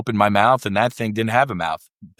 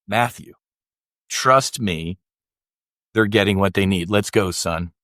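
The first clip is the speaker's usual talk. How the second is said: gentle voice of God; 2 semitones lower than usual. Retold or imitated. God calming the narrator as his son, understated gentleness. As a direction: soothe him like a patient father. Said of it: "even more gently said".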